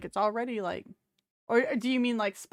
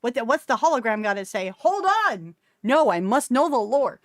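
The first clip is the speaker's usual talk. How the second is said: eager lore fan. Retold or imitated. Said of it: "my brain is immediately gonna go".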